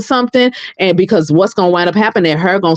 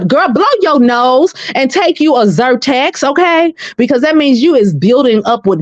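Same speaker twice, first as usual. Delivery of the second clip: sassy; 5 semitones higher than usual. Acted. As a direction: tell her off with sass. Sassy advice to the singer.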